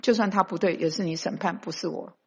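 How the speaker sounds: soft, hushed confession to the Lord; a believer confessing to God, softly and humbly; humble prayer. Acted. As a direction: pray it quietly, yielding judgment to God. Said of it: "你要说".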